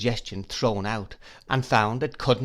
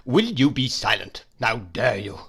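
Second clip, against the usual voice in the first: thundering; 3 dB louder than usual. Acted. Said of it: "thundered Mister Murdstone".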